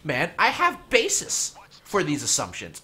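loud, heated ranting; angry rant. Real, not acted. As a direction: rant loudly and high. Ranting at another player.

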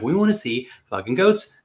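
a mock gripe at the chatty goat guys; impatient mock complaint. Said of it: "We're like".

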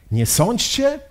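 high rising, doubting question; questioning echo. Acted. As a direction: repeat it as a puzzled question. Lenin questions the remembered words. (pytające, zdziwione powtórzenie)

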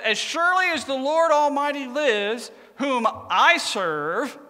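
being smart. Retold or imitated. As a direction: draw out the acted dig at the end. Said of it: "now he's gonna be smart again".

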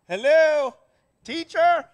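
high, loud call for the teacher's attention. Retold or imitated. Student in class calling out to get the teacher's notice. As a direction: strain up and call out hello teacher.

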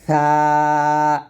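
সা with tongue on upper teeth edge, lisped th; thin tha. Shown as a demonstration. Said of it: "উপরের দাঁতের আগা লাগাবেন পাতলা করে".

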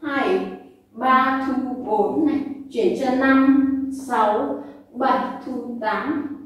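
rhythmic rep counting; counting workout reps. Shown as a demonstration. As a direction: call out the counts. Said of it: "Đếm này".

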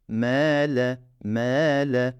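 M held one beat long; teacher drawing out M; lengthened. Shown as a demonstration. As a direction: stretch the M. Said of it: "M'yi uzatmak zorundayım".

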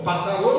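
"pássaro" with the stress moved onto final RO; wrongly shifted stress. Shown as a demonstration. Teacher rejecting a wrong reading, "pássaro" stressed on final RO. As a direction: land on the end of "pássaro", pas-sa-RÔ. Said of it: "não".

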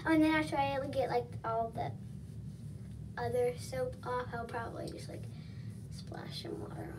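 washcloth briefly over mouth; speaking through cloth partly; talking while wiping face. Real, not acted. Seen 0: Cloth wipes cheeks and eyes, covers nose and mouth around 1.5s.

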